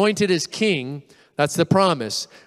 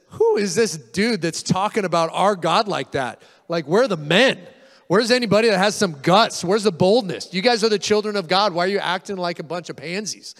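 indignant challenge; 3 semitones higher than usual. Acted. Acts out David's challenge to soldiers.

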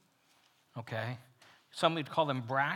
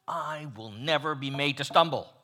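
bold boast; 9 dB louder than usual. Acted. Peter's boast retold.

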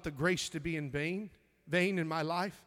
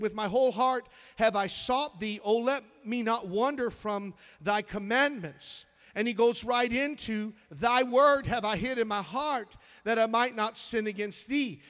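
scripture reading. Real, not acted. Pastor reading the verse to the church, proclaiming. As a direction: read it out to the church. Reads King James aloud.

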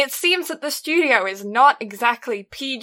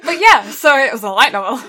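laughing; 7 dB louder than usual. Real, not acted. Repeated through laughter.

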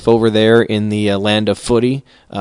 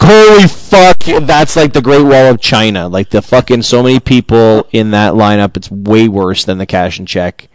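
retold shock. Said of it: "I'm like".

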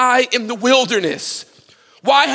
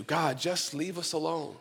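hushed dismissal; 3 semitones lower, 14 dB quieter than usual. Retold or imitated.

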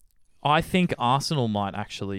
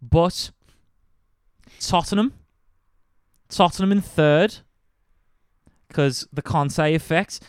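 a hint of put-on Scouse, higher pitch; Liverpool accent; 4 semitones higher, 4 dB louder than usual. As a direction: keep holding a light Liverpool accent. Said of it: "I've slipped out of it".

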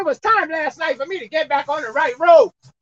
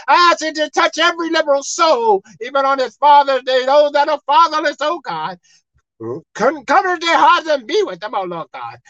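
praying; 2 semitones lower than usual. Acted. Pastor prays over the broadcast.

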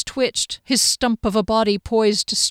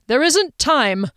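higher, drawn-out urgent protest; urgent refusal; 6 semitones higher, 4 dB louder, slower than usual. A narrator's reading. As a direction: stress the urgency, stretching the words. Duke refuses to halt, urgent.

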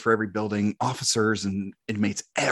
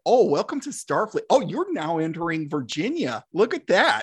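Janeway impression; 5 semitones higher than usual. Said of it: "I would do that".

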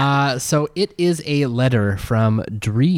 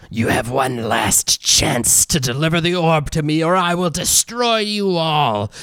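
slow menacing villain, rising threats; deep gravelly voice; 4 semitones higher than usual. Acted. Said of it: "deep, gravelly voice come from inside of it".

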